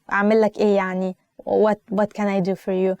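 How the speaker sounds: quick, dismissive sarcasm; sarcastic. Shown as a demonstration. Teacher demos answering an upset friend sarcastically. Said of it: "But, like, in a sarcastic way".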